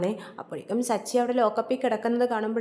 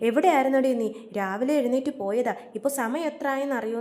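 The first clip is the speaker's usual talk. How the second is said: mock angry scolding; 3 semitones higher than usual. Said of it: "Chandra രേവതിയോട് ചൂടാവുന്നുണ്ട്".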